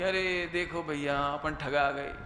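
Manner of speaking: slow, mildly put-on grumble; mock complaint. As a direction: complain slowly as if cheated. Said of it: "complaint की हो". (धीमी शिकायत की नकल)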